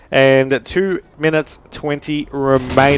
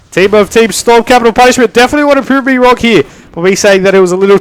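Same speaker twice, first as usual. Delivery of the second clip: excited; 5 semitones higher, 4 dB louder than usual. Real, not acted. Comeback closing the score gap.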